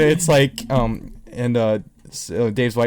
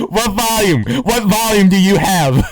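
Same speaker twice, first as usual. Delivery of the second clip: mock puzzled; 6 semitones higher, 4 dB louder than usual. Joking about DVD title.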